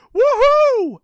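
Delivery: very high, loud whoop of delight; gleeful whoop. Acted. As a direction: cheer it out, thrilled. Dingo cheering his plan.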